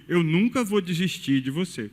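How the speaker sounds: ordinary delivery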